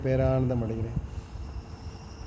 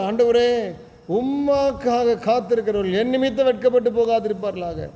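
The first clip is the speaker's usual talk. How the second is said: lamenting plea; 4 semitones higher than usual. Acted. Preacher voicing David pleading with God, higher lament. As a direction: cry out to the Lord, begging for an answer. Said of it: "என்று புலம்புகிறான், கத்துறான்".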